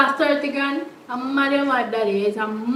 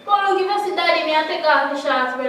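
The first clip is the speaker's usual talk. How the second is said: urgent plea; 3 semitones higher, 5 dB louder than usual. Acted. Daughter urges brother to search.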